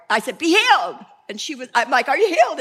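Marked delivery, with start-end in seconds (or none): 0.4-1.0 loud, higher command to be healed; commanding prayer. Retold or imitated. Preacher commanding healing over a sick woman, loud and higher. 2.1-2.6 higher, louder eager check; eager question. Retold or imitated. Preacher eagerly asking the woman if she's healed, higher and louder.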